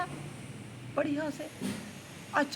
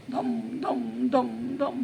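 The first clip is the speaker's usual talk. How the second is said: heavy thudding footsteps; much slower than usual. Acted. Imitating the elephant's heavy running thuds.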